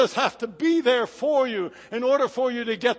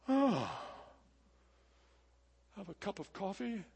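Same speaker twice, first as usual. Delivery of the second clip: mock casual; 10 dB quieter than usual. Mock casual Jesus line, retracted.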